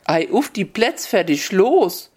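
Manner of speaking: leicht frankfurterisch gerufen, langsam, das Ei hoch angesetzt; Frankfurter Startruf. Retold or imitated. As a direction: wie ein Frankfurter, der kein Oberhessisch kann, langsam ausrufen. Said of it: "rief er aber, weil he in Frankfurter war". (Startruf auf Frankfurterisch, langsam)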